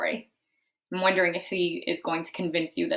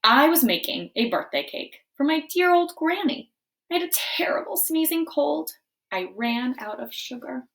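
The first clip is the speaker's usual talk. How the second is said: wolf narrator; 7 semitones higher, 3 dB louder than usual. Acted. Wolf narrates his story.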